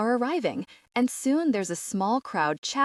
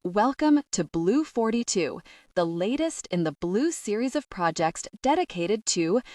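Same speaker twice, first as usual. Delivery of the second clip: ringing announcement. Acted. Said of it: "his voice ringing out around the space".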